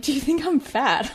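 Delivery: a hint of a worried six-year-old; half-voiced child asking timidly; little daughter's voice. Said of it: "she's like".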